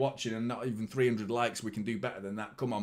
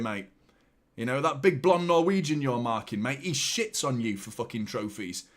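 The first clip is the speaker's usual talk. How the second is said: raised, higher, heated taunting; angry rant; 4 semitones higher, 3 dB louder than usual. Real, not acted. Fan taunting Gabriel about his empty trophy cabinet, angry raised rant. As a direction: tear into him with scorn.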